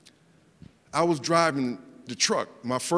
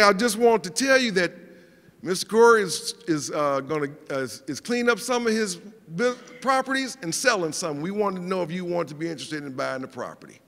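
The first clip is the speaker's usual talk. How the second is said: put-on country accent; 3 dB louder than usual. Property manager offering the tenant a sale, imitated country accent. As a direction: put on a country twang, easing down to usual pitch. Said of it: "got a country accent".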